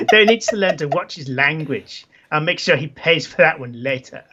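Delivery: put-on accent, curse as a full stop; Isabella. Isabella grumbles about her boyfriend, put-on accent. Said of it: "It's just like a full stop".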